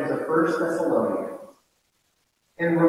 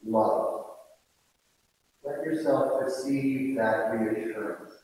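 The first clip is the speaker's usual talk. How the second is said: gentle. Real, not acted. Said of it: "gentle and kind".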